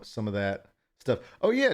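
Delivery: normal talking voice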